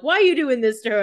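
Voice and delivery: exasperated question, lightly acted; imitating annoyance. Viewer protesting at Stefan's treatment of Caroline, mock-annoyed. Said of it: "he's pissing me off".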